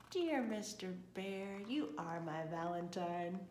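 lighter, slow, tender recital; Missus Bear reciting. Acted. Missus Bear's poem.

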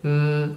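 short closed-mouth grunt. Acted. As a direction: imitate a wordless "mm" grunt. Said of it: "Grugnisce e comunica a versi".

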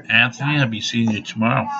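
ordinary talk

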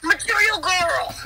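slow sung-out diva line; man doing a woman's voice. Acted. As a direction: belt it like a pop diva. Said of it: "my best Gregory song impression".

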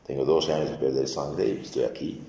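soft, hushed trembling confession, a touch of fear; trembling old woman. Retold or imitated. The healed old woman confesses to Christ, softly trembling. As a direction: mildly voice a frightened old woman owning up. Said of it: "temblando la ancianita dice".

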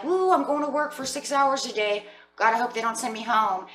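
acting out giddy excitement, pitched high; giddy and happy. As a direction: play someone thrilled, voice lifted. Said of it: "gets you all giddy inside and so happy".

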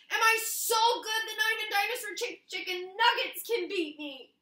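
fast, high bragging; boastful Scissors. Acted. Scissors marvels at her win, fast and high. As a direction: brag in disbelief at your own skill.

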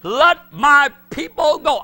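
slow, loud, high proclamation; commanding the devil. Acted. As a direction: order the devil to release them. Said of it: "he said to the devil".

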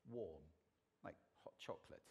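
low, warm hot-chocolate voice; rich, smooth, warm. Shown as a demonstration. Describing the timbre listeners prefer, warm and smooth. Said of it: "voices which are rich".

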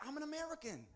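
high, loud indignant cry; protesting shout. Retold or imitated. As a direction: insist loudly on who you are. Repeating his protest to officer.

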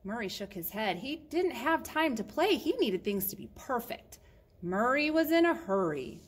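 animated read-aloud, lifting on key phrases; lively storytime narrator; children's story narration. Acted. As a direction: tell it to little listeners with bouncy emphasis.

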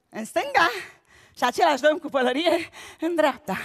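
usual speaking voice

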